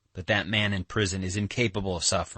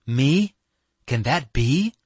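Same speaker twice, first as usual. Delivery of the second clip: high, louder startled questions; faltering shock; 6 semitones higher, 7 dB louder, slower than usual. A narrator's reading. Katya startled that he asks for her, faltering. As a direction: falter in disbelief, voice lifting high. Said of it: "she faltered".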